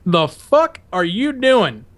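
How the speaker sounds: slow, drawn-out menacing question; drill instructor. Retold or imitated. Drill sergeant confronting the recruit, slow and menacing. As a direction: lean in and drag every word. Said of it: "he goes".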